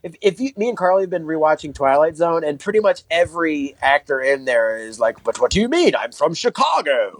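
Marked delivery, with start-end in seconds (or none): 5.2-7.2 put-on a light, lilting mid-Atlantic English accent; mock old-Hollywood English lilt. Twilight Zone actor insisting he's from Chicago, lightly English-accented. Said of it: "a tiny English lilt".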